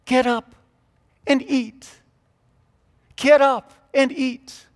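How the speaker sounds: high-pitched German Mennonite woman; Mennonite accent. Retold or imitated. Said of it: "in her Mennonite accent".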